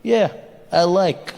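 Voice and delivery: slow, lightly voiced Russian; a hint of a blunt Russian accent; drawn-out words in a Russian accent. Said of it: "the Russians were just like".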